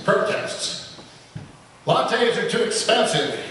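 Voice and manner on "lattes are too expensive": higher pitched donkey protest; a mild donkey bray. A narrator's reading. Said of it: "she brays".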